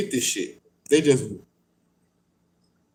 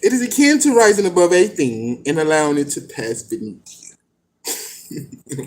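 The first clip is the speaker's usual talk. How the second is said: lightly pompous recital; a hint of grand old-book voice; mock formal reading. Shown as a demonstration. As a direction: poke fun at the lofty phrasing. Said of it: "when they talk like this".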